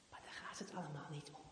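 quick hushed aside; father whispering what truly counts; fast whisper. Acted. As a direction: rush it under the breath. Papa drops to a whisper.

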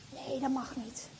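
ordinary talk

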